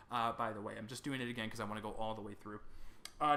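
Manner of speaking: ordinary talk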